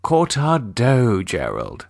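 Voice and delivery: slow corrective Cortado; wife corrects husband's Spanish slowly; correcting pronunciation. A narrator's reading. Cortado said slowly with a falling close. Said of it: "said Cynthia".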